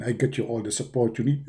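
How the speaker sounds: low, hushed voice of God; mock divine whisper on the phone; deep whispered God voice. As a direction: whisper it like a solemn deity. Deity voice.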